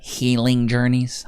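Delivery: slow, scornful repeat, asking chat; mocking disbelief. Asking chat about the wife's phrase, slow and scornful. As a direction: drag out the words in disbelief.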